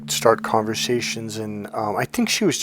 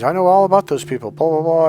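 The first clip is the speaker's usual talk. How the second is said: higher, louder, fast mock of a know-it-all; eager guy claim; 5 semitones higher, 5 dB louder than usual. Store guy telling me he knows all about narcissists, higher, louder and quick. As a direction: rattle it off high and pushy like an overeager stranger.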